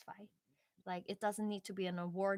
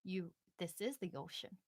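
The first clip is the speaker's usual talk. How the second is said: put-on wise old fish; 3 semitones lower, 5 dB quieter than usual. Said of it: "the old fish is like".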